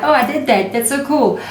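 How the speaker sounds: high, pleased oh I did that; delighted surprise. Retold or imitated. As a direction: marvel at your own magic. Delighted self after manifesting.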